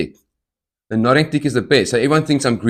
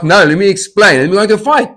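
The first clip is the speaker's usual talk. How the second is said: much higher, louder flustered plea; imitating a flustered plea; mock panic; 10 semitones higher, 8 dB louder, faster than usual. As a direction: blurt it out in a panic. Panicked reply to threat.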